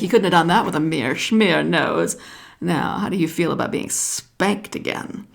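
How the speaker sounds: put-on the wise old snake giving advice; lightly voiced python snake.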